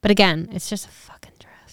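hushed unvoiced aside; whisper. Real, not acted. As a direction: whisper it under the breath.

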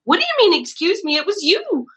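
high, pointed blame; mock accusing. Narrator blaming the person in front, mock accusing. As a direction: call them out, half laughing. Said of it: "'cause I was like".

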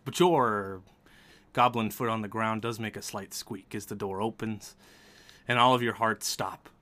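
measured suspenseful narration; game master's scene setting. A narrator's reading. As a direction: set a tense scene, pausing between phrases.

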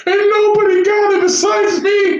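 high, laughing through the words. Real, not acted. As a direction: gasp it out between laughs. Still laughing while telling.

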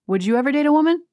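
imitating Kyle. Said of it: "Kyle just says to Dorit".

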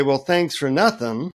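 understated, acted annoyance; a touch of sarcastic irritation in your own accent; mildly pissed off. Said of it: "I'm totally pissed off now".

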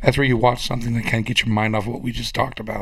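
hoarse, strained voice; voice giving out. Real, not acted. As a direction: speak with a raspy, failing voice. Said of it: "I lost my voice".

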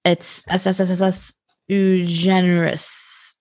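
hissing S S S S S before Ugenerous; drawn-out s like a snake. Shown as a demonstration. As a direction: stretch each S in S S S S S into a long hiss. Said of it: "I literally cannot say your name".

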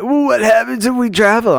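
imitating a worried partner. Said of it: "every time Jamie's like".

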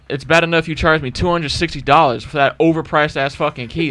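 moderately heated retelling of an argument; retold indignant rant. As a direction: lay into the salesman over the price.

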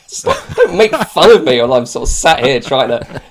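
loud, high mock protest through laughter; exasperated. Acting out a complaint to the annoying IT guy, exasperated. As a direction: plead and scold, amused at yourself.

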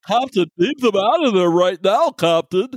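lightly voiced alarmed officer warning the captain; a hint of mock urgency; urgent warning. Co-host mimics the empath warning her captain, mock-urgent.

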